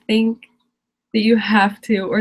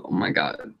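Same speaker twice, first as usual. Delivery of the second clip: whisper; 6 dB quieter than usual. Real, not acted. Reacting while hiving.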